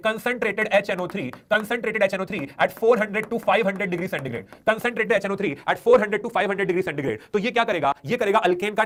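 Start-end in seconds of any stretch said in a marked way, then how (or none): 0.1-4.5 slow dictation. Shown as a demonstration. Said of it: "let us say". 4.7-7.3 slow dictation. Shown as a demonstration. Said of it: "let us say".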